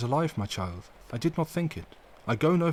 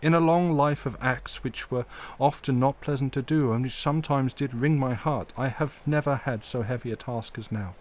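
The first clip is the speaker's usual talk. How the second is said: full of pity; 3 semitones higher than usual. Acted. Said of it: "with an accent full of pity".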